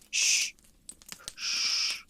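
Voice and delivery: hushed hiss; shushing. Acted. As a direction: hush someone sharply. Hatter and Hare hushing Alice.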